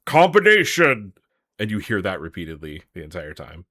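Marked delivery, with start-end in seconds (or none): 0.1-1.1 loud, high, drawn-out announcer shout; annoying game announcer. Retold or imitated. Host mimics the fighting game's hit callout, annoying announcer shout. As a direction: belt it out like an obnoxious arcade announcer. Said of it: "a really annoying announcer that goes".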